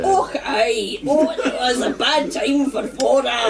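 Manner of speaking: impression of Ren. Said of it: "Good impression".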